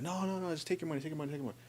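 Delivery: high, hushed, repeated urging; soft insistence. Retold or imitated. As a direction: imitate waving away an objection. Retells insisting someone take the money.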